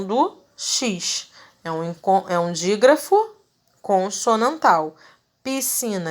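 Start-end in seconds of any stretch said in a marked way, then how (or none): 5.4-6.1 "Piscina" in the normal way, no separate S before "cina"; silent S in piscina. Shown as a demonstration. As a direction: say "Piscina" with one hissed S sound, the SC as a single S. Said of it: "Eu falo piscina".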